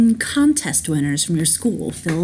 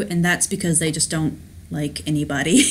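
normal talking voice

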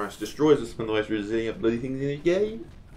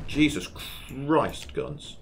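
exasperated; 5 semitones higher, much slower than usual. Real, not acted. Sudden exasperation in battle.

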